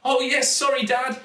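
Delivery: high, loud hasty apology; flustered little girl. A narrator's reading. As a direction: apologise quickly in a girl's high voice. Girl apologises to yelling dad.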